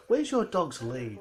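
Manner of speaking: slow, loud, high nagging voice with a laugh; slow laughing busybody impression; mocking nosy stranger. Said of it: "Always like".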